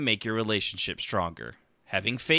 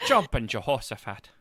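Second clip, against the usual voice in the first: put-on Newfoundland accent. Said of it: "maybe a Newfoundlander".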